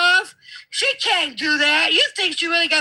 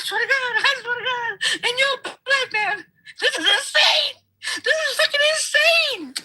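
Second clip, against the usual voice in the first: incredulous outrage; 9 semitones higher than usual. Real, not acted. Outraged, laughing in disbelief at Tim.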